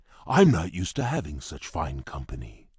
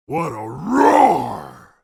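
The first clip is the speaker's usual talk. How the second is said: high, slow, loud cry of wonder; amazed exclamation; 12 semitones higher, 6 dB louder, much slower than usual. Acted. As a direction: stretch it out in awe, nearly shouting. Marvelling at a loud roar.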